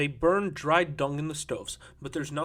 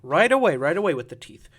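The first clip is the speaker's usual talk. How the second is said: loud retort; 10 dB louder than usual. Acted. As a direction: answer back forcefully, then ease off. Storyteller retorts to the interruption.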